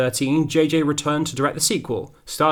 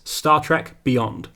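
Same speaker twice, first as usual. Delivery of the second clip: very slow, drawn-out title announcement; dramatic title reveal; 2 semitones higher, much slower than usual. Shown as a demonstration. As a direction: savour each word like a trailer. Title announced as series peak.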